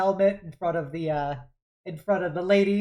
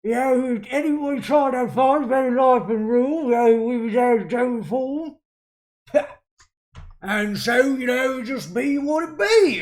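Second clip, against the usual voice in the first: loud, high voice around a cigar; cigar in mouth; 7 semitones higher, 8 dB louder than usual. Acted. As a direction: talk past a cigar. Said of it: "I gotta put something in my mouth".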